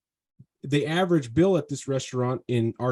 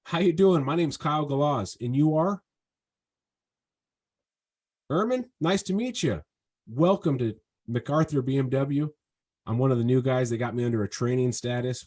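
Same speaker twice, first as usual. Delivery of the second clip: genuine greeting. Shown as a demonstration. Salesman greeting a customer with genuine warmth, hand out. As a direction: greet them like you're glad they came in. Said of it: "being genuine".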